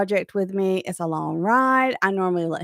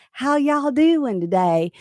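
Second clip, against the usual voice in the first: Southern accent; 4 semitones higher, slower than usual. Shown as a demonstration. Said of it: "I'm so Southern".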